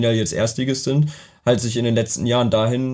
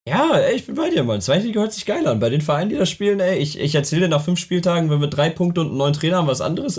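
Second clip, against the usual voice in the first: excited; 6 semitones higher, faster than usual. Real, not acted. Fired-up agreement about second league.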